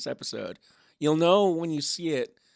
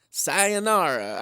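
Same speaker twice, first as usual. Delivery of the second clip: Spanish-sounding; 3 semitones higher, 3 dB louder, slower than usual. Shown as a demonstration. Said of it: "sounds kinda Spanish".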